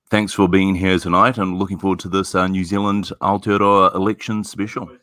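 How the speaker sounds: talking through a mouthful of pizza; mouth full. Real, not acted. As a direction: speak round a bite of food. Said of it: "Sorry, eating a bit of pizza at the moment".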